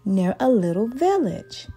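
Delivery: put-on gentle storybook reading for children; story narration. A narrator's reading. Teacher reading a picture book to the class, storybook voice. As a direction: read it like a teacher at story time.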